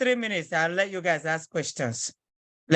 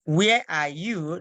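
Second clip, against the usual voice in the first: Where are you said slowly; slow model; slower than usual. Shown as a demonstration. Teacher to class, slow model. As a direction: spell it out slowly. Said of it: "slow model".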